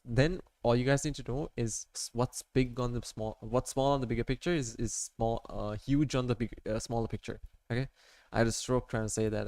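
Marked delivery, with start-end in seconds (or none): 0.0-7.9 breathless, rushing the words; running out of air mid-sentence; out of breath. Real, not acted. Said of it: "I don't know why I'm running out of breath right now".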